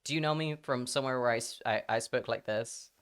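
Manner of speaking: low, easy American accent. Shown as a demonstration. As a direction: say it with an American accent, rhotic R's. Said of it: "what do you think is my real accent?".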